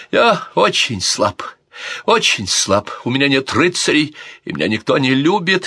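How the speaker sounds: plain reading voice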